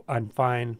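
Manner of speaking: ordinary talk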